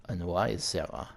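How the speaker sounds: put-on French-accented villain. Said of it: "you want the French accent".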